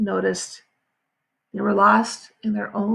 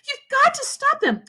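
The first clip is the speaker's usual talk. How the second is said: urgent. A narrator's reading. Catherine urgent.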